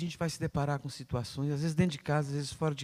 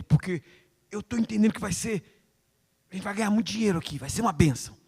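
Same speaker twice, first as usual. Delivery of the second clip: a lightly voiced excited prayer, louder at the start; eager prayer; 4 dB louder than usual. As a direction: gush to the Lord about the money. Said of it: "chama a sua esposa".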